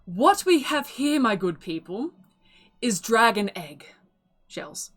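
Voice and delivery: grand, proud saleswoman pitch; proud auctioneer. Acted. Auctioneer to the crowd, proudly announcing her prize. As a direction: present the eggs like a showpiece.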